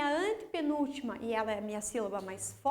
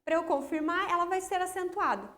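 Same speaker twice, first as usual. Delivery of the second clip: imagined enthusiastic pupil. Pretend. Pupil checking the rule with teacher, imagined enthusiastic pupil. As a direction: play a pupil delighted by an easy rule.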